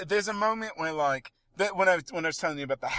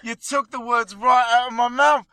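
loud, high-pitched burst of agreement; excited agreement; 9 semitones higher, 8 dB louder than usual. Real, not acted. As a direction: exclaim it, thrilled to agree. Delighted that co-host said it first.

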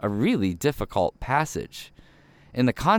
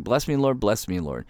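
mock begging prayer. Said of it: "Everyone loves the blessing".

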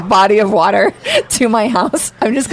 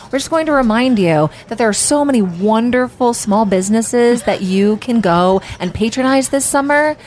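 radio announcer voice. Retold or imitated. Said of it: "he would literally be like".

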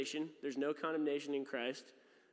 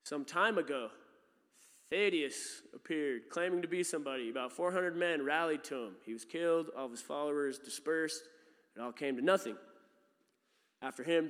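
Gamaliel's speech. Retold or imitated. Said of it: "Then he addressed the Sanhedrin".

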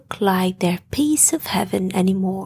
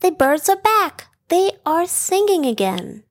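thrilled; 8 semitones higher than usual. A narrator's reading. Ellie thrilled birds returned.

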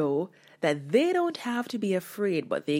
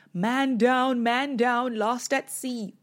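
panicked cry; 6 semitones higher, slower than usual. Acted. Frightened disciples in the boat calling out in mock panic. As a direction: cry out like frightened sailors in a storm.

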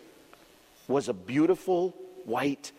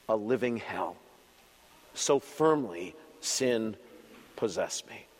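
solemn hymn recitation. Acted. Reciting Luther's hymn text.

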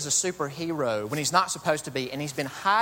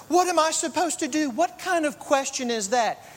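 Edna Mode; 6 semitones higher than usual. Retold or imitated. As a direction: lecture her like a fierce little couturier. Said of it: "She says".

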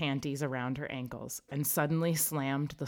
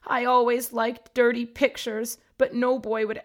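wailing ghost; 8 semitones higher, 9 dB louder than usual. A narrator's reading. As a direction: wail in shame. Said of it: "she suddenly wailed".

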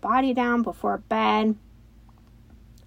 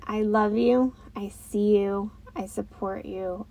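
loving affirmation. Shown as a demonstration. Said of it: "and saying".

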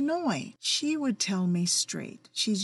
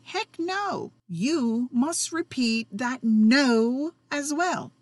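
stern no; 3 semitones higher, 3 dB louder, slower than usual. Shown as a demonstration. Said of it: "You should say no strongly, sternly, and fiercely".

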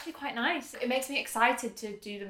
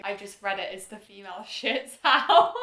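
laughing misreading; 2 semitones lower, 6 dB louder than usual. Retold or imitated. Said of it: "you've texted me one time being".

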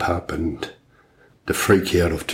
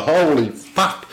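higher, slow, drawn-out disbelief; mock aghast, higher and slow; stunned retold reaction; 8 semitones higher, slower than usual. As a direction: let it hang in shock. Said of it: "oh, I fucking go".

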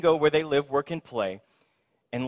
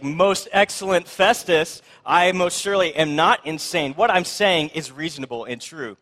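mock-deferential, raised and louder, easing down; mildly sarcastic; 2 semitones higher, 5 dB louder than usual. Paul answering Festus who called him insane, mildly sarcastic. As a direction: draw out the lofty address with a touch of sarcasm. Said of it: "he's a little bit sarcastic".

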